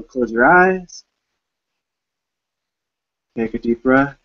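measured meditation guide with long pauses; unhurried phrases, leaving space to breathe; guided meditation. Real, not acted. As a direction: gently lead listeners inward, phrase by phrase.

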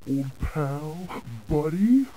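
ordinary talk

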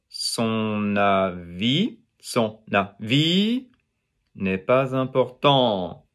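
slow "son avis n'est pas important", lengthened VIS and TANT; stress at group ends. Shown as a demonstration. Teacher showing French emphasis, slow with final syllables stressed. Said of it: "emphasis is at the end".

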